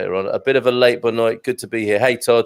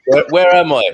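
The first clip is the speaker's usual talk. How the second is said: put-on a rough stab at a Scottish accent that drifts Irish; lightly put-on Scottish voice, a little louder; mock Scottish accent; 5 dB louder than usual. Host playing a lost walker in Scotland, in a mock Scottish accent. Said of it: "is that a Scottish accent? That was Irish".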